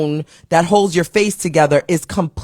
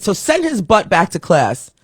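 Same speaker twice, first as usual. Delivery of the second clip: composed calm. Retold or imitated. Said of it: "so you can tell she's holding herself together".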